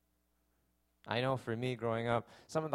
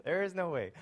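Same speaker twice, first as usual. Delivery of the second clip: higher, louder, emphatic acted refusal; retold stubborn refusal; 6 semitones higher, 6 dB louder than usual. Preacher acting out his younger self wrestling with God, stubbornly refusing. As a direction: dig your heels in, acting out defiance. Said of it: "It felt like wrestling with God".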